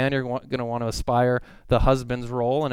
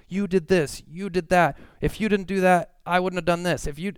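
mock blaming spouse; 6 semitones higher than usual. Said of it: "it was so easy".

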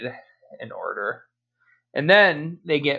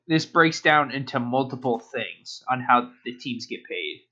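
holding back a sneeze. Real, not acted. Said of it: "I'm trying not to sneeze".

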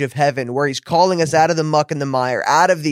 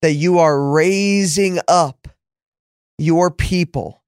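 a touch of preaching fervor in the prayer; spoken prayer. Acted. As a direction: pray it out over the listeners. Leads a closing prayer.

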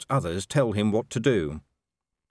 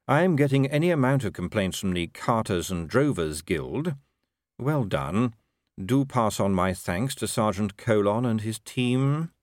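measured, lightly voiced ruler; urbane patrician, dryly pleased. Patrician praising the traffic division to his commander, dryly measured. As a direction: give dry, deliberate praise.

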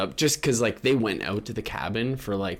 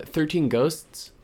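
"Thirteen Ghosts" stretched slowly, pitched higher; slow drawn out; 7 semitones higher, much slower than usual. Shown as a demonstration. Naming a scary movie, drawn out.

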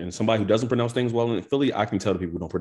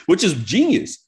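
laughing; 6 dB louder, slower than usual. Real, not acted. Laughing at a convict joke about a singer.

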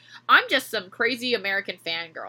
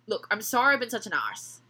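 put-on Irish accent. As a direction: read it in an Irish lilt. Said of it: "the arse was good, Irish".

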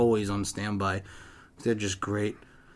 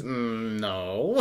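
imitated drunk denial; 5 dB quieter than usual. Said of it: "so you're just drinking".

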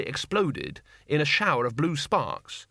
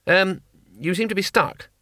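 lively tourist voice; 6 semitones higher than usual. Acted. Two Flower voiced.

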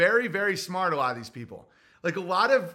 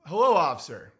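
polite to a cop. Shown as a demonstration. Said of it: "what do you say?".

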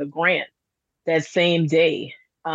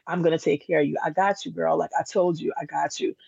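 gentle reassurance; 4 dB quieter, faster than usual. Retold or imitated. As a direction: reassure her quietly as God would. Voices God reassuring her.

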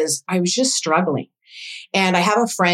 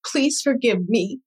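slow, higher-pitched pleading; retold tearful plea; 5 semitones higher, slower than usual. Mother begging her daughter on the phone, lightly tearful plea. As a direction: plead slowly, imitating a crying mother. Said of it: "she started to cry".

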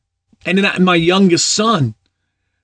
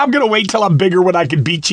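put-on excited kid shout; 3 semitones higher, faster than usual. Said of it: "He goes".

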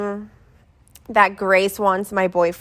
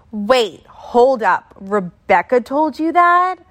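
shocked disbelief; 3 semitones higher, slower than usual. Retold or imitated. To her boyfriend, finding out the best friend lied: shocked disbelief.

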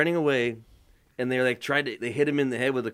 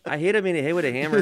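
wrestling promo voice; 3 semitones higher than usual. Acted. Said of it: "This is my wrestling voice".

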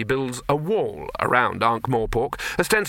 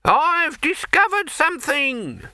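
mock shout; 4 dB louder, slower than usual. Pipe man mimics shout.

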